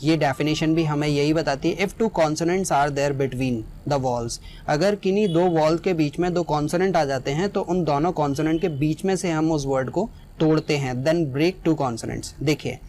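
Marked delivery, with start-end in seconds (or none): 1.8-4.4 very slow, word by word, x0.4; slow dictation. Shown as a demonstration. Teacher to students, dictating the rule slowly. 11.0-12.3 very slow, word by word, x0.4; slow dictation. Shown as a demonstration. Teacher to students, dictating the rule slowly.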